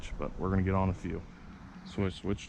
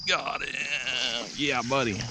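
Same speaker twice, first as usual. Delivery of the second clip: excited; 5 semitones higher, much slower than usual. Real, not acted. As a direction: cheer the catch. Lands a big bass.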